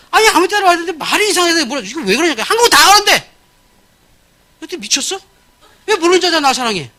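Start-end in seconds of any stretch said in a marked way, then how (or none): none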